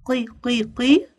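"قي، قي، قي" as separate qee beats; "قي" repeated as a sounded-out syllable; qaf with kasra. Shown as a demonstration. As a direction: drill "قي" three times, evenly spaced. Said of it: "قاف كسرة".

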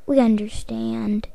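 soft unvoiced reassurance; whispered. Forgiving Patrick quietly, in a whisper. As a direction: whisper it gently.

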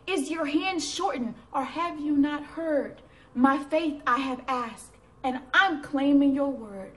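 emphatic, measured recitation; insistent devotional poem; poem reading. Acted. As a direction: challenge God in verse, phrase by phrase.

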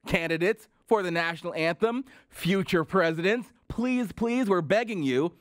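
mock begging. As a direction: plead theatrically with the candidates. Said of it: "had to beg the candidates".

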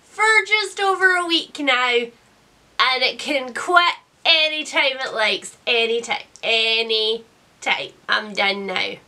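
croaky voice from a cold; hoarse sick voice. Real, not acted. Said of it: "as you can tell from my voice".

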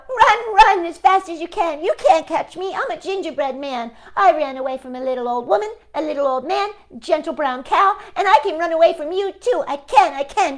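high, loud taunting chant; cheeky gingerbread man. Acted. The gingerbread man taunting everyone chasing him, high and loud. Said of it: "laughed and cried out".

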